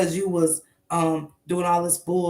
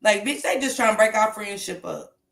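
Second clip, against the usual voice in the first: mock gossiping girl; 2 semitones higher than usual. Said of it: "it sound like two girls".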